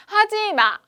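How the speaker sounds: 높고 크게 외치기; 하지 말라고 막아서듯. Acted. 청개구리 자석 역할 외침. (청개구리 자석이 크게 외침)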